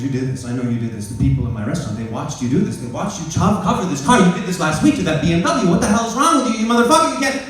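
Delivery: building from firm to a high, loud yell; a furious neighbour rising to a shout; angry owner yelling. Retold or imitated. Restaurant owner yells at him over the car, furious shout.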